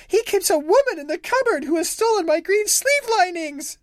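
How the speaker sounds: high, tearful complaint; a touch of sobbing; wife complaining to the neighbors, mildly tearful. A narrator's reading. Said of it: "sobbed the wife".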